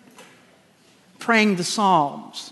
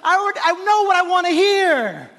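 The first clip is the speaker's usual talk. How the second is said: lightly voiced God, amused; a hint of God, half-laughing; playfully voicing God's own words; God speaking; 10 semitones higher than usual. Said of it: "God is saying".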